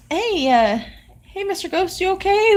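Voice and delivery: high-pitched, imagined check on a ghost; tentative hailing. Pretend. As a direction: pretend to call gingerly to a ghost, voice lifted. Imagined friendly approach to ghost.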